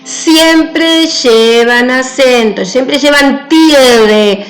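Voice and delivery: each word spaced and stressed slowly; slow emphatic rule. Shown as a demonstration. Teacher hammering home a rule.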